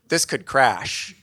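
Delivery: mild dread; anxious inner thought. Retold or imitated. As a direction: let the fear creep in slowly. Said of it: "I said to myself".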